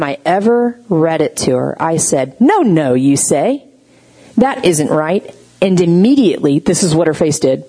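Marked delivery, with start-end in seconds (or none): 2.4-5.3 firm, correcting "no, no"; upsetting firm tone. Retold or imitated. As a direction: correct them plainly and firmly. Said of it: "my tone upset her".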